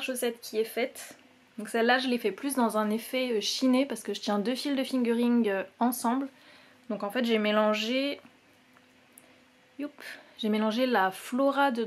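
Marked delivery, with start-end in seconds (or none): none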